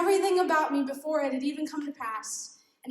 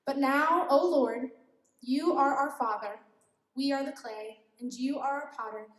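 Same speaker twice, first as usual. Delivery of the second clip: slow. Shown as a demonstration. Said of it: "I'm gonna read it really slow".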